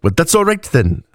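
put-on high, accented reply; Mauxi woman's accent. A narrator's reading. Woman replying to the drunk cleric, high Mauxi accent. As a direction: answer with deep vowels and sharp consonants. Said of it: "her accent marked by deep vowels and sharp consonants".

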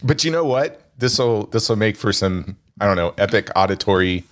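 numb mouth from the dentist; talking with half the face numb. Real, not acted. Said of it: "I can't feel half my face".

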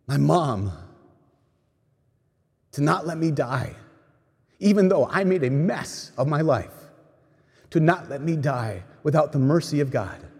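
soft, retold plea, pitched slightly up; begging. Dying man begging his mom not to let him die, pleading. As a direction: plead quietly, understated. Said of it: "just begging".

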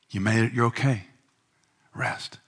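breathy whispered command to rest. Acted. Preacher whispering rest to his soul.

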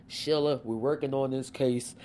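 hint of an impression of the attorney colleague; Michael Churchill. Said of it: "that's my Michael Churchill voice".

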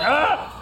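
sudden high yelp; startled yelp. Retold or imitated. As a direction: let out a sharp surprised cry. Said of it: "this guy's like".

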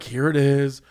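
beaten-down, retold compliance; defeated. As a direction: hand it over like you've given up. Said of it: "I have never been so defeated".

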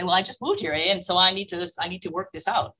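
lightly put-on Canadian accent, deadpan; a hint of Canadian accent, kept straight-faced. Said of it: "I put on the Canadian accent and I said".

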